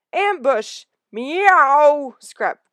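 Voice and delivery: high, loud yowled alarm; young cat yowling ambush; spitting alarm cry. Acted. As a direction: shriek the warning at the attacker. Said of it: "spat Graypaw".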